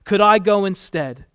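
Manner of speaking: loud, high, urgent offer; pleading. A narrator's reading. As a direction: plead desperately to take their place. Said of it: "pleading with his eyes".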